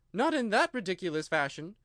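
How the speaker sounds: a small creature griping; complaining Dormouse. A narrator's reading.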